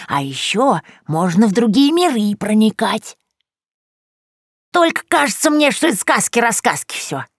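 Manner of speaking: a cackling granny confiding a secret; grandmotherly witch voice; old crone voice. A narrator's reading. Yagusya's crone voice held.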